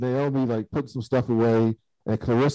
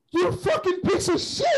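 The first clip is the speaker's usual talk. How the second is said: screeching furious insult, pitched way up; angry outburst. Retold or imitated. Recapping a show, he imitates Naomi cursing at Holden, high furious voice. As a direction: mimic her snapping at him in rage. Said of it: "she was so angry at him".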